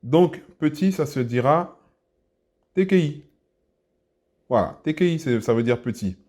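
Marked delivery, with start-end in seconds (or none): 2.8-3.2 T K I said high, pitch up; tonal demo. Shown as a demonstration. Teacher introduces petit to learners, high tonal T K I. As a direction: voice T K I high with its tones. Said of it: "Avec les intonations".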